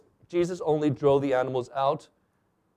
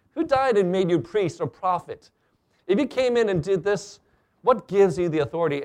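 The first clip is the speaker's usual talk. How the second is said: imitating an indignant challenge; mildly upset demand; 3 semitones higher than usual. Upset Jews challenging Jesus over his authority, mildly indignant demand. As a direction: press the question, a touch put out. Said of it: "Jews who were a little bit upset demanded".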